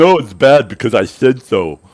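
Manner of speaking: loud, drawn-out, mocking derisive tone, acted out. Mocking an opponent's argument by imitating them: mocking imitation of opponent. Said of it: "all you can say is".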